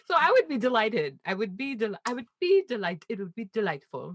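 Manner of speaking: attempted British accent. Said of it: "I can't do it".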